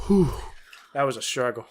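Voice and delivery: winded after bending down; puffing, out of breath. Real, not acted. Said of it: "You're out of breath".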